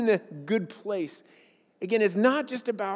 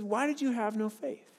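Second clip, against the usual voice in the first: gentle question; 3 semitones higher, 6 dB quieter than usual. Retold or imitated. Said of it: "he says".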